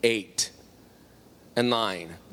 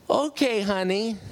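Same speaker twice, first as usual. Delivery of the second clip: high, sugary mock reply; imitated sweet agreement; 5 semitones higher, slower than usual. Gruff father agrees to prayer from visitor, imitated sweetness. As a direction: imitate a suddenly agreeable old grouch.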